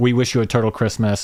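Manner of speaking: normal talking voice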